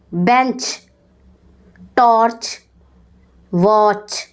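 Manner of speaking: بینچ، ٹارچ، واچ with a clear final چ; ch sound demo. Shown as a demonstration. Teacher to pupils, modelling the چ sound in بینچ ٹارچ واچ. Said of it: "Pronounce the sound سی ایچ".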